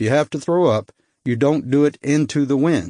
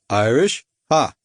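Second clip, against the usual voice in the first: put-on Baltic accent. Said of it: "His accent was hard to place".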